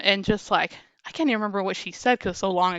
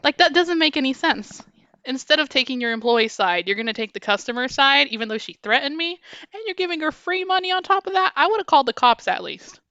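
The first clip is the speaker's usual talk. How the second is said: heated; 4 semitones higher than usual. Real, not acted. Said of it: "is making me heated".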